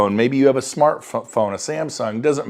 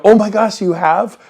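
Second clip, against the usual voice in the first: higher, louder oh my gosh; light up like it's great news; excited surprise; 4 semitones higher, 4 dB louder than usual. Shown as a demonstration. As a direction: coach showing the eager reaction on the phone. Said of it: "You gotta go".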